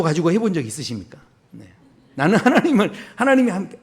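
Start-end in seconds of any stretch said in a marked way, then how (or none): 2.2-3.8 laughing mock testimony. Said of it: "mock believer".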